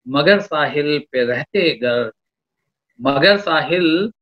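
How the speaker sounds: slow measured couplet delivery; poetry recitation. Acted. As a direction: lean into each line of verse.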